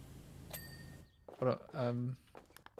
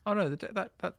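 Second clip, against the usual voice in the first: sudden high worried cry; alarmed; 9 semitones higher, 5 dB louder, faster than usual. Real, not acted. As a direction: react in quick alarm. Alarm at decorative trim.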